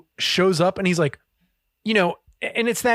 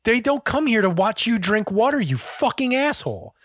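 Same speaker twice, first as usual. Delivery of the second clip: imitated angry scolding; 5 semitones higher than usual. Acted chef berating thirsty waiter.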